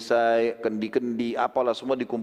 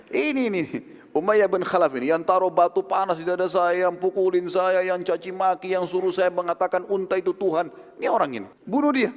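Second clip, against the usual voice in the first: higher, heated denouncing; angry accusation; 4 semitones higher than usual. Acted. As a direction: point him out and demand his death. Bilal denounces Umayyah to the Ansar.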